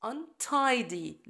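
untidy with tidy stressed, slow. Shown as a demonstration. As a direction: lean on tidy. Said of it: "ال stress على tidy".

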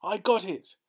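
put-on high, triumphant boyish yell; whooping holler. A narrator's reading. Boy landing his fish at last, whooping holler. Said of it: "he whoops and hollers".

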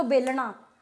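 "बेलना" said the Punjabi way, with retroflex "ṇ"; Punjabi-style "बेलना", ending in "ṇaa"; Punjabi pronunciation. Shown as a demonstration. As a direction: curl the tongue back on the "ना" of "बेलना". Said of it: "Punjab में तो बेलना".

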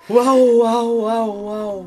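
驚いて連呼する; 怖がって思わず声が出る; びっくりした「ワオ」. Real, not acted. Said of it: "こんな怖がり方". (怖がって「ワオ」と連呼)

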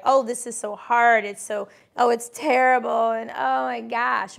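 mock complaining. Mocking complainers.

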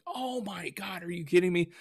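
high, exasperated oh my God. Retold or imitated. Woodworker reliving the dog's mud mess, exasperated. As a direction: disbelief at the muddy bookshelf.

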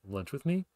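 "Lunch with me?" with the pitch rising on "me"; rising question tune. Shown as a demonstration. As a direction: end on an upward lift. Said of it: "this ascending bit at the end".

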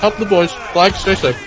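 high, urgent battle commands; shouting orders. Real, not acted. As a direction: yell it across the field. Officer calling commands in battle.

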